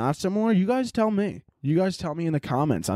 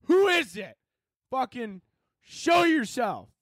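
high panicked shout at a burglar; scared shout; 12 semitones higher, slower than usual. Pretend. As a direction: yell into the dark house, terrified. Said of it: "And I'd be like".

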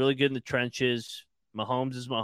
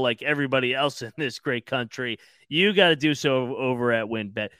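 upbeat sponsor ad read. Acted. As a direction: sell it like a radio ad. Host reads sponsor ad.

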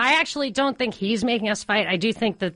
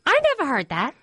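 higher-pitched Brooklyn mother in denial; mom's Brooklyn accent; 5 semitones higher, faster than usual. Retold or imitated. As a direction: deny it in an imitated Brooklyn mom voice. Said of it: "I'm doing a voice".

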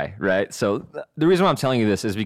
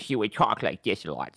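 impression of killer. Shown as a demonstration. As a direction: slip into the weird killer voice. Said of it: "He would do impressions of that guy".

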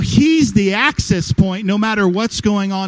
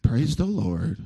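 mock pious Christian; 6 semitones lower, 3 dB quieter, slower than usual. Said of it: "Have you ever seen those people?".

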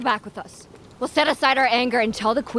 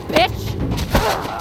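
strangled gasp; 7 semitones higher than usual. Acted. Being choked mid fight.

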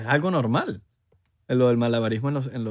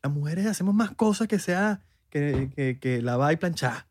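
mock feminist; 2 semitones higher, slower than usual. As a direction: rant like a parody activist. Continues the feminist parody.

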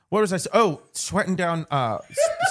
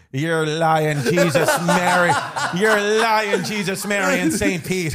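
loud, hammed-up Irish exclamation; mock disbelief; 4 dB louder than usual. Host acting out disbelief to co-host, exclaiming. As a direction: swear by the saints, laughing.

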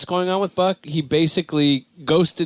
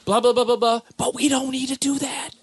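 Obama impression; 7 semitones higher than usual. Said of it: "Obama's giving a speech".

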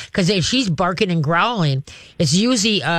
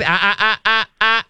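warning growl; 4 semitones higher than usual. Shown as a demonstration. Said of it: "now she's thinking about revving up".

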